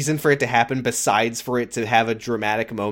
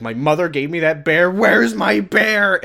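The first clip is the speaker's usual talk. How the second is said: mock Ben; 4 semitones higher, 4 dB louder than usual. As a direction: whine it like a lost child. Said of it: "He's like".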